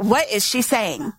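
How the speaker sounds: puzzled listener asks aloud; baffled listener. Retold or imitated. A confused churchgoer staring blankly at the preacher, baffled.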